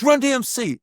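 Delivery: put-on calling out the name in a light Japanese accent; a Japanese fan's call, lightly imitated. Japanese fan hailing the group at the airport, light Japanese accent. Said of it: "with that Japanese accent".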